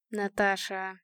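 softly, soothing her by name; mild, soft reassurance; gentle. A narrator's reading. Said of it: "мягко сказал Сергей".

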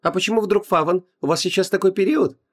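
high, sugary mock-sweet voice; cartoon princess. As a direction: gush it up high, sarcastically. Heroine continuing sugary mockery.

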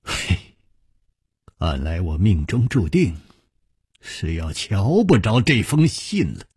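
resigned sigh with a rueful smile; wry, bitter smile. Acted. Hero who has lost the letter, wry and resigned. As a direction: sigh it out wryly. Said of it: "苦笑着说".

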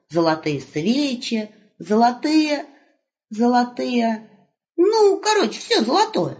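put-on young wolf hailing grandpa; cheerful young wolf. Wolf lists gold.

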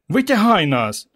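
high, drawn-out tearful plea; whiny shout. A narrator's reading. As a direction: wail to be pulled out. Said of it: "плаксиво закричав Петро".

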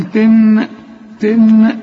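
"تن" as a ringing strike with held n; clock chime imitation. Shown as a demonstration. Teacher compares the noon to a clock, chiming "تن". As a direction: ring out each "تن" like a clock. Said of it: "زي الساعة اللي بتعمل تن".

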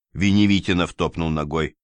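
ordinary delivery, nothing marked

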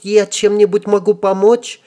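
put-on high squeaky girl voice; self-important squeak. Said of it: "важно пискнула она".

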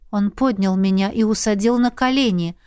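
plain reading voice

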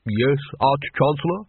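slow, rising, innocent reply; oozing innocence. Acted. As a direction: answer the boss as if you've nothing to hide. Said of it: "his voice oozing innocence".

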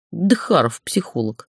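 breathy unvoiced whisper, slow. A narrator's reading. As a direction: hiss the curse under your breath. Muttered curse under breath. (шёпотом, себе под нос)

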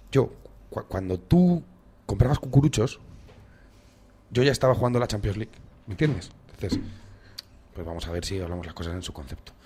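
lightly voiced condescending politician; a hint of a lecturing elder statesman; imitating Rubalcaba. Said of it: "lo dijo como lo dice él".

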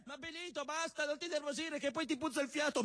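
wife's voice. Acted. Wife voice scolding Benito.

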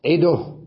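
عده as 'iduh, loudly; pause with vowel transfer. Shown as a demonstration. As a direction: put u on the د of عده. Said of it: "ماذا أقول".

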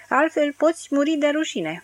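mock her at a pitch; shrieking taunt. Drunk Dirty taunts the maid, high and loud.

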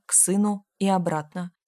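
plain reading voice

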